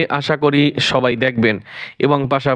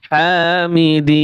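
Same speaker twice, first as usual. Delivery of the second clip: slow drawn-out reading; 2 semitones higher, much slower than usual. Shown as a demonstration. Teacher to students, showing how to blend the syllables, slow chanted reading. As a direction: stretch every syllable, very slow and sung out. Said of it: "বানান করে পড়বেন".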